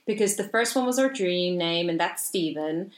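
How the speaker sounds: imitating a mother in a wobbly Canadian-Irish accent; half-hearted Canadian-Irish accent; botched Canadian-Irish accent. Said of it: "Was she Canadian?".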